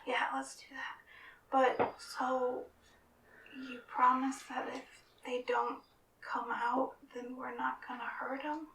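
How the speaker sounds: timid loud stage whisper; whisper yelling. Acted. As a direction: whisper loudly, worried and hesitant. Character voice, whispering.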